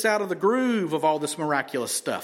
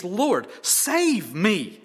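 retold plea; 3 semitones higher, 3 dB louder, much slower than usual. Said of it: "And what does he ask?".

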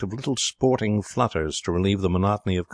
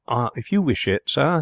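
higher, polite butler voice; deferential butler; 7 semitones higher, 3 dB louder than usual. A narrator's reading. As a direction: yield with smooth deference.

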